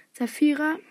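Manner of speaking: name called out like a roll-call; lightly voiced teacher's call; Professor McGonagall. A narrator's reading. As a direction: summon the pupil, projecting a little. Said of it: "rief Mc".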